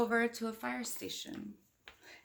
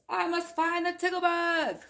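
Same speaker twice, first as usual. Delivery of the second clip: eager resolve; 8 semitones higher, 5 dB louder than usual. Acted. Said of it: "he exclaimed".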